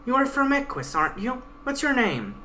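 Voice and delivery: the guide. Acted. Guide threatening the Pegasus at knifepoint, lightly voiced stern menace. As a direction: threaten coldly as the blade-holding guide.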